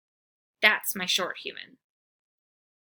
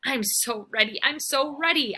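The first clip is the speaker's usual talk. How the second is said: eager bark; 5 semitones higher, 4 dB louder than usual. Acted. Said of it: "I bark".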